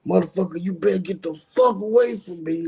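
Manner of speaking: half-acted yell at someone to back off; retold screaming. Man yelling at the crowd to get away, mock scream. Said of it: "like, loud screaming".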